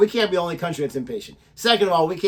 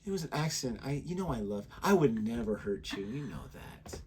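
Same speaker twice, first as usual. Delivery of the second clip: mocking co-host; 6 semitones lower, 10 dB quieter than usual. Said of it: "that's what she always says".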